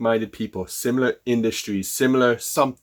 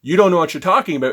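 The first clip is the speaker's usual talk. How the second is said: dismissive client; 5 semitones higher, 5 dB louder, faster than usual. Pretend. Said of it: "the client says".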